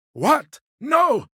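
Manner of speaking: sudden jump up, a sharp "No!"; shocked outburst. Acted. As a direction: recoil in disbelief at the idea.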